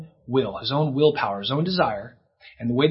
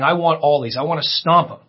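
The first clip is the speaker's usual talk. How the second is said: a louder, greedy demand; menacing Satan; 2 semitones higher, 5 dB louder than usual. Acted. Preacher voicing Satan wanting to stomp the disciples, menacing. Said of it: "Satan is saying".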